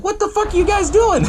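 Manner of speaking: high-pitched, exasperated holler; mock yell. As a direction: yell at friends, playing it up. Yelling at people out in rain.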